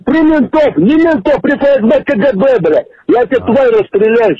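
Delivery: angry threat. Real, not acted. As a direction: threaten him in real fury. Furious victim on prank call.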